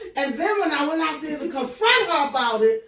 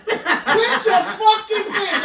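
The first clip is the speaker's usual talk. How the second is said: slow mocking retort; 3 semitones higher, slower than usual. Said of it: "I love to say fucking".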